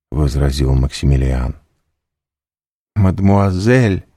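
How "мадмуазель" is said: мадмуазель thrown back high, loud and drawn out; мадмуазель cried high, loud and slow in hurt disbelief; indignant exclamation. A narrator's reading. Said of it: "воскликнула Валентина".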